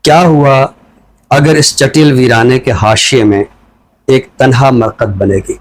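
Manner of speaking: measured, deliberate reading of a poem; poem recitation. Acted. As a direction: give each line weight and leave pauses between phrases. Poet recites his poem. (ٹھہر ٹھہر کر نظم کی سنجیدہ قرأت)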